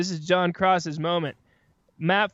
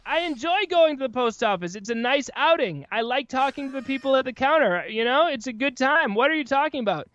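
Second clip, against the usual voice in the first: higher-pitched, puzzled protest; indignant retort; 6 semitones higher than usual. Acted. Podcaster answering a post office commercial, indignant. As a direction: argue back at an absurd ad.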